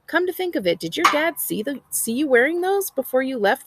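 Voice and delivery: a hint of a needling mother; teasing mom. A narrator's reading.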